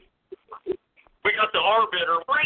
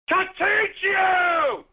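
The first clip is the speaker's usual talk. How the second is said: even slower, more stretched bellow; very slow shout; 5 semitones higher, much slower than usual. Real, not acted. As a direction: drag out every word in a yell. Shouting at other players.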